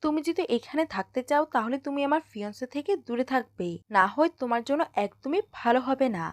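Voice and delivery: ordinary delivery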